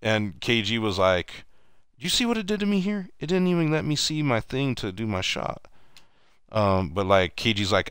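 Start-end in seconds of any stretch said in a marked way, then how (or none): 2.0-5.6 very high put-on complaining voice; pitched way up, mock complaint. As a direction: imitate a player griping in disbelief. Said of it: "mimics everything".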